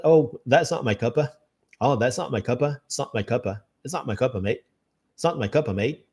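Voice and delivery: "that's not my cuppa, mate" in a light British way; casual British. Retold or imitated. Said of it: "geralmente eles falam apenas". ("not my cuppa, mate" com leve sotaque britânico)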